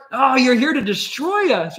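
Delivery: hammed-up demon wailing in fear. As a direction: demon cries out at Jesus, mock shrieking. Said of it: "he's screaming, like".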